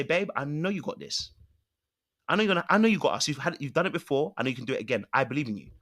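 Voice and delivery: soft, sincere reassurance; reassuring belief. Retold or imitated. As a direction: tell him you believe in him. Encouraging wife quoted.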